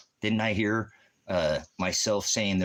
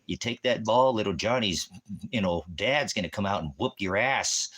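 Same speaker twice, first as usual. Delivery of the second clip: inner voice warning; 4 semitones higher than usual. Retold or imitated. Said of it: "a voice inside that says".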